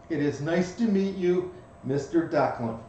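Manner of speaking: put-on prim little girl's careful greeting; prim and proper. Seven-year-old introducing herself to Mister Declan, prim and proper. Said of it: "stands prim and proper".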